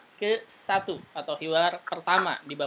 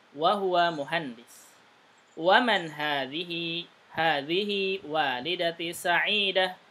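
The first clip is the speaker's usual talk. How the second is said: slow model reading, questions rising; textbook reading aloud; slower than usual. Shown as a demonstration. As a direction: read the dialogue slowly for the class. Reads the Arabic dialogue aloud.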